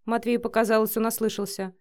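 plain reading voice

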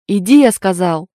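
loud angry command; yelling order. Acted. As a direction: roar it at him to move. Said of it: "заорал на него Егор".

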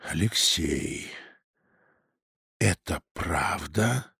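very soft, slow, low menace; father quietly confronting his son; too quiet. Acted. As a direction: ask it dangerously hushed. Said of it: "Тихо, даже слишком тихо спросил".

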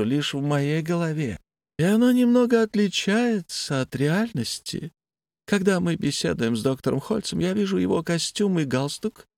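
a detached, unsettling patient; blind patient voice. Acted.

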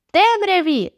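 high, excited call; crying out. A narrator's reading. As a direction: call the word out high, falling at the end. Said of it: "тепер уже крикнула Джулія". (збуджений вигук)

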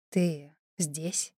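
hoarse surprise. A narrator's reading. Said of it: "прохрипел удивлённо".

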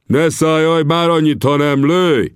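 angry shout. Acted. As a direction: bark it out, sick of waiting. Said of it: "kiáltotta Tangoa".

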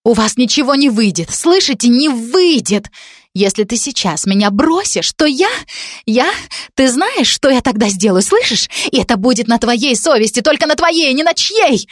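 a half-restrained hysterical outburst; hysterical shout. Acted. Spurned girl threatening Dan in tears, a high hysterical cry. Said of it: "истерично прокричала девушка".

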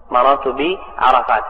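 بعرفات ending in "-ta", no final n; fatha ending. Shown as a demonstration. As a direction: slowly say بعرفات as "bi-arafaata". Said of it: "ويجر أيضًا بالفتح". (بعرفات بالفتح)

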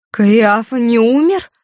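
high, loud, slow outraged cry; furious shriek. Acted. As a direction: scream it out in disbelief. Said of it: "закричала она". (яростный крик, высоко и громко)

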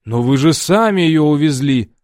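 doctor protests he took her himself, indignant. A narrator's reading. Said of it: "возмутился доктор".

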